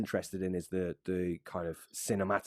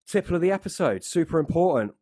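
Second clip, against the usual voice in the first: announcer voice; 8 semitones higher, 6 dB louder than usual. Acted. Announcing podcast segment.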